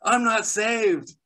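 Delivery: high, loud frantic protest; panicked protest. Retold or imitated. Admitting to his wife he isn't saved, panicked high protest. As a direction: plead it in a panic. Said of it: "I'm like".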